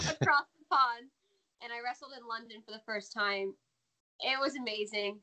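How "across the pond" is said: savoring the phrase through a laugh. Real, not acted. Guest repeating a phrase she loves, laughing. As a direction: relish the words, laughing. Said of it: "I love saying that".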